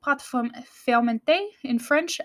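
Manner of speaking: "pâte ferm-, fermentée" said with a French accent; French pronunciation. Shown as a demonstration. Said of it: "I have a terrible French accent".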